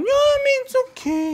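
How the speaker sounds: mock reassurance, a touch feeble; a hint of Juwon's small voice; imitating Juwon. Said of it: "Tapos sabi niya".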